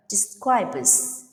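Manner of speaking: "describes" with final S voiced as Z; Z ending. Shown as a demonstration. Teacher gives example of voiced sounds, Z on "describes". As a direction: finish "describes" on a Z after B. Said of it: "pronounced like Z sound".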